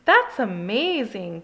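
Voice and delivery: slow, gushing delight; a touch of starry-eyed gushing. Acted. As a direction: gush over it like an awed little sister. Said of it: "gushed the girls".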